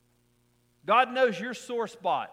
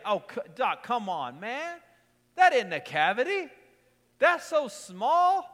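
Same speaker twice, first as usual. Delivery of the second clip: mock pleading; 3 semitones higher, 5 dB louder than usual. Pleading with dentist over cavity.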